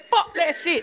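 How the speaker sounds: ordinary delivery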